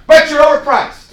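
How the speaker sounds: loud, high, blunt declaration; bold blunt shout. Shown as a demonstration. Agent telling Kelby bluntly his price is too high, shouted. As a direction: hit them with the truth. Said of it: "the five percent of the boldness".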